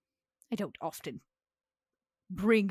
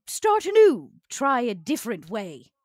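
quoted hope; 4 semitones higher, 10 dB louder than usual. Retold or imitated. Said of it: "I hoped to say".

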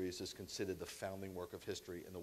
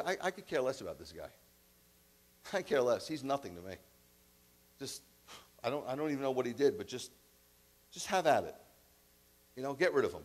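dismissive Pilate. Acted. Pilate voiced dismissing Jesus.

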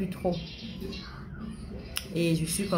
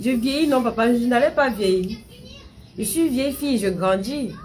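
high, louder protest; 5 semitones higher, 4 dB louder than usual. Real, not acted. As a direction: argue back at papa. Protesting to father.

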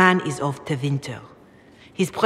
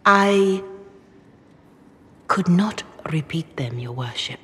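hushed whisper. Acted. Hushed reply about shameful rumors.

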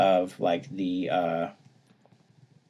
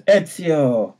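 surprised; 6 semitones higher, 6 dB louder than usual. Acted. Bart recognizes Ezio, game retold.

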